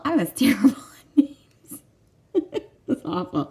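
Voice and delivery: whispered through a laugh, embarrassed; sheepish laughing whisper. Real, not acted. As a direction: confess it in a giggly whisper. Laughing at own teacher flaw.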